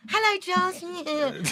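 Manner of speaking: high, slow, tight British hello; prim British reply. Retold or imitated. The speaker answering Jocelyn, high, slow and prim. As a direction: answer small and polite, held back. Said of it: "And I".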